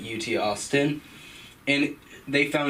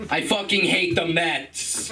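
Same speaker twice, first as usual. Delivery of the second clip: mock mobster rant; 5 semitones higher, slower than usual. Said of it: "continues Soprano bit".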